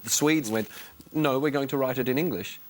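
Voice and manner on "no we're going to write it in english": lightly put-on Swedish accent. Host mimicking Swedes deciding to write in English, Swedish accent. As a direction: do a playful Swedish lilt in English. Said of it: "that was my doing a Swedish accent".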